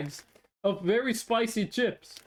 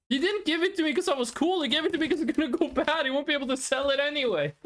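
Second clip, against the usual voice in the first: indignant realization; 6 semitones higher, much faster than usual. Real, not acted. Realizes he got hustled.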